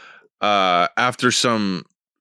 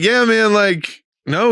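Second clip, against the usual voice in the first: imitating a rural guy's casual drawl; 10 semitones higher, slower than usual. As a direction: mimic his laid-back twang. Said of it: "he kinda talked like this".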